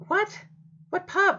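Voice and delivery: can't believe what he just heard; incredulous what. Real, not acted. Host reacts to pub answer.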